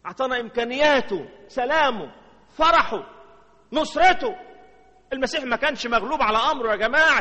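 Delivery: high, loud exultation; rising, loud list of gifts; triumphant preaching. Real, not acted. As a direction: build to a triumphant cry.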